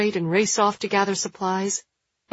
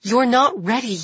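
restrained shout, raised pitch; raised-voice warning; 4 semitones higher, 4 dB louder than usual. A narrator's reading. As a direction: call it out firmly. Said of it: "Jules shouts at the people loud enough".

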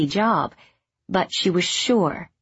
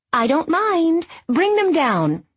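higher and louder mother calling up; mother calling up the stairs, louder; 10 semitones higher, 3 dB louder, slower than usual. A narrator's reading. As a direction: insist from downstairs. Mother calls up again.

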